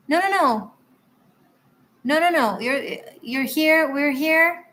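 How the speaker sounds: high, eager no-no-no; excited reassurance. Real, not acted. Reader reassures the viewer she was not missed, excited. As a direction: brush the worry away with glee.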